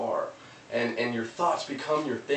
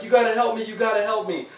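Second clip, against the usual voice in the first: much higher, louder begging voice; desperate plea; 11 semitones higher, 5 dB louder than usual. Retold or imitated. Man in the hole begs passing doctor, high desperate plea. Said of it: "he's like".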